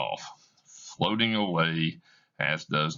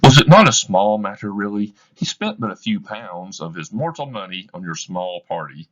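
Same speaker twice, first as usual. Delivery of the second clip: loud opening, then a probing ghostly voice; the Ghost needling Scrooge; challenging spirit voice; questioning spirit; 3 semitones higher, 8 dB louder than usual. Acted.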